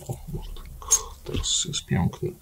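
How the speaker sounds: very soft, whispery self-talk; whispered aside. Real, not acted. Maker admiring the finished spirit house, whispered aside. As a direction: whisper it to yourself, barely audible.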